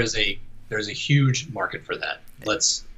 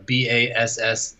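slow, deliberate spelling; spelled out letter by letter; slower than usual. Shown as a demonstration. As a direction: spell it out slowly, one letter at a time. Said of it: "I will not say the name".

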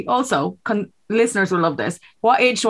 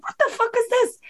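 high, softer stunned question; high stunned mock reaction; mock shock; 3 dB quieter than usual. Shocked at Instagram.

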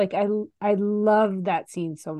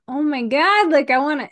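higher-pitched retold gush of feeling; overcome reaction; 6 semitones higher, 4 dB louder than usual. Retelling a reaction to a moving film moment, overcome. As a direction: act out being overwhelmed by a scene.

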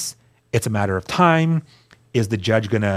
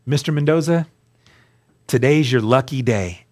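formal judge voice. Retold or imitated. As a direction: savour the good news like a judge about to rule. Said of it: "this is how they talk".

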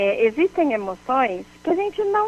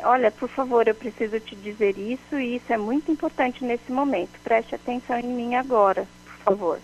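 calm respectful request. Shown as a demonstration. Asking a distracted listener for attention, calm and respectful. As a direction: ask kindly and clearly for attention. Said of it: "É diferente, muito diferente".

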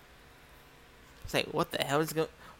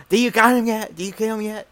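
loud, higher demanding boss; hammed-up furious boss; boss yelling; 6 semitones higher, 9 dB louder than usual. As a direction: bark it down the phone like an angry boss.

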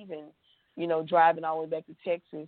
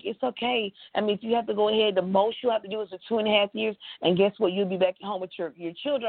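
quick, higher, brushing-it-off reassurance; breezy lawyer; 3 semitones higher, faster than usual. Retold or imitated. Attorney casually reassures her client about prison time. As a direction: rattle it off like it's no big deal. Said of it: "And she's like".

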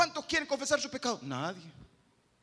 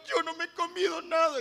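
put-on child denying; 7 semitones higher, 4 dB louder than usual. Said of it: "se te ponen a llorar".

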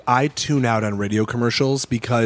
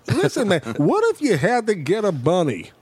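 lightly voiced spacey stoner; Jeff Bridges impression; 5 semitones higher than usual. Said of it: "he's like".

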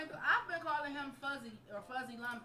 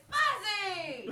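shouting name; 5 semitones higher, 5 dB louder than usual. Retold or imitated. Imitating a fan calling out.

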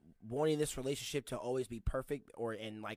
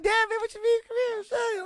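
high, loud playful complaint; mock exasperated shout; 9 dB louder than usual. Man coaxing his girlfriend over, high mock exasperation. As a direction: plead loudly in put-on disbelief.

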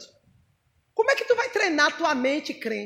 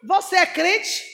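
pergunta do diabo; 3 semitones higher, slower than usual. Retold or imitated. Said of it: "olha pra mim e dizer".

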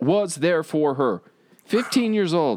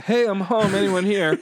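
calling out; 6 semitones higher than usual. Retold or imitated. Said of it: "I would call out".

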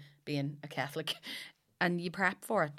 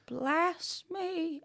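higher, insistent repeat for a deaf priest; 12 semitones higher than usual. Retold or imitated. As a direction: say it again, pushing it like he wasn't heard. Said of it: "he went".

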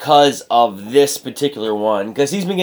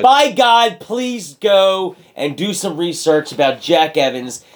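excited; 5 semitones higher, 4 dB louder, slower than usual. Real, not acted. Raving about a wrestler.

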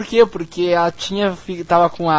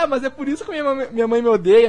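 mock Monica; 4 semitones higher, faster than usual. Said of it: "a Mônica fala".

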